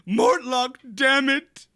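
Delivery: high, loud, drawn-out demand; insistent shout. Acted. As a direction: bellow it like an order to a friend. Game master voices Mortlock insisting, shouted.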